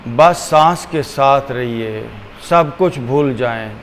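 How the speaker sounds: unhurried, measured, leaving room for each breath; guided meditation. Acted. Teacher guiding listeners to watch the breath, calm meditation voice.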